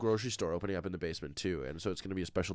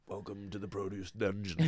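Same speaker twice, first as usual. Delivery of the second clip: mock shopkeeper; 4 dB quieter than usual. Voicing a dungeon shopkeeper.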